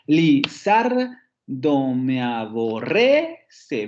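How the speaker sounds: drawn-out "li-ZAR-do me-a-bo-RRE-ce"; stress on second syllable. Shown as a demonstration. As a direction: punch ZAR, then lift RRE. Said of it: "el primer acento cae en la segunda sílaba".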